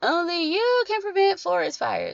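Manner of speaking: piped up high with pitch swooping around. Recalling a favorite childhood commercial, doing a bad Smokey Bear impression. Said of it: "that is my terrible imitation of that".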